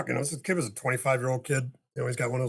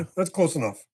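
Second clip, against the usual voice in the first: firmer repeat, pushed out harder; now you mean it, press the words; firmer warning; 2 semitones higher, 4 dB louder than usual. Retold or imitated. Repeating the warning as the upset man keeps coming, firmer. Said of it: "'Cause now I'm starting".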